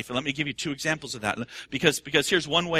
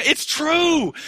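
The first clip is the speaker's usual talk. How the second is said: loud insistence; 11 semitones higher, 5 dB louder than usual. Real, not acted. Preacher insists loudly.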